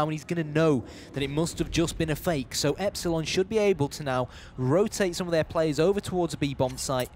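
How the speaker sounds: running esports commentary in measured phrases; live play-by-play. Real, not acted. Esports caster follows a retake of the bomb site, live play-by-play. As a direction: narrate the action as it unfolds, phrase by phrase.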